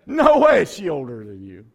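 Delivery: loud, incredulous retort; hammed-up outburst of disbelief. Dad insisting to his son about her age, incredulous.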